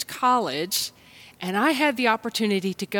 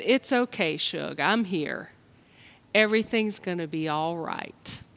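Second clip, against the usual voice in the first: gentle reassurance; 4 semitones lower than usual. Retold or imitated. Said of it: "what my mom said".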